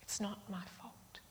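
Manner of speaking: very soft, in an adult voice; hushed, sober echo. Shown as a demonstration. Preacher echoing the child to the congregation, hushed. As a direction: let it sink in, barely audible.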